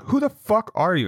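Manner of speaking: high, insistent mock demand; imitated aggressive challenge. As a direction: press the stranger, lightly acted. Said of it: "You're coming off all aggressive".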